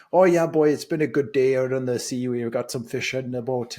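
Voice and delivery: light Newfie accent, a bit brighter at the start; lightly voiced Newfoundland fisherman accent. Shown as a demonstration. Guest demos how Newfies speak, light Newfoundland accent. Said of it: "They speak sort of like this".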